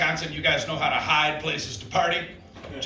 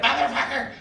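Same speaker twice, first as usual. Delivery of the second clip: cold curse; 9 semitones higher than usual. Retold or imitated. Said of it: "everyone's like".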